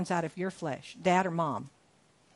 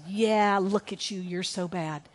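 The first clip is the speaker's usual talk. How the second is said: mock accuser. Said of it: "and he says".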